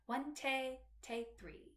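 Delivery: "One tay, tay, three" counted in syncopated rhythm; "One tay, tay, three" as a spoken rhythm demo; staccato, accent, staccato count. Shown as a demonstration. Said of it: "style at the beginning is staccato, accent, staccato".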